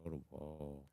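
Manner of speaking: muttered aside at the game; under his breath. Real, not acted. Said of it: "Try to do it under my breath".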